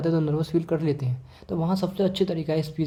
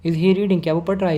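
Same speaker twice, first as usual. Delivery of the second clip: "Is he reading" pitched up and louder; rising tone; 4 dB louder than usual. Shown as a demonstration. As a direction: ask "Is he reading" expecting a yes. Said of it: "इस तरीके से". (ऊँचे सुर में सवाल)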